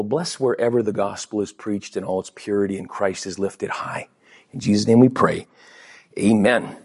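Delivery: low, hushed prayer voice. Acted. Pastor leading the congregation in prayer, low and reverent.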